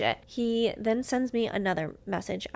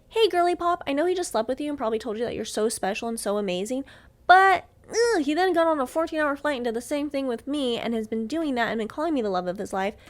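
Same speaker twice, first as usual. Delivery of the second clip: a hint of a bubbly girl, higher on hey girly pop; mock sweet girl voice; 4 semitones higher, 3 dB louder than usual. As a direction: play the chirpy girl's girl.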